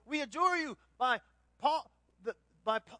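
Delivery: loud, high mock command to a demon; hammed-up exorcist ordering it out. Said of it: "And so".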